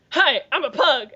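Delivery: lightly voiced pug voiceover; a hint of cartoon-dog introduction; talking pug. Imitating a pug's first line on video, talking pug. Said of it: "the first line out of the pug".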